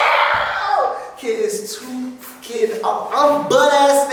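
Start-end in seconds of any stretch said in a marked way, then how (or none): 0.1-1.0 sudden high yelp of shock, half laughing; startled yell. Retold or imitated. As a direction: jolt awake and yelp. Waking up caught naked.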